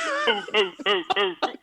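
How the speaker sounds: hooting a row of ohs; imitated bystanders going "oh, oh"; mock onlooker hooting. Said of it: "there's just like".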